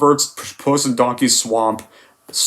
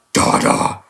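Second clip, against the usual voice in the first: devilish voice. Retold or imitated. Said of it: "He even says it like that".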